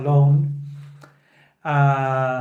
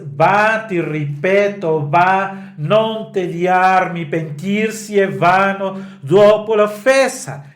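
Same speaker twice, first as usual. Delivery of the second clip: upset; 4 semitones higher, 3 dB louder than usual. Retold or imitated. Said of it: "very upset, insists".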